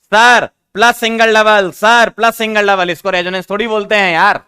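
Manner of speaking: teacher voicing a student who doubts the rule; mock student protest. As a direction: whine the objection like a confused pupil. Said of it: "आपको देखने से लग रहा होगा".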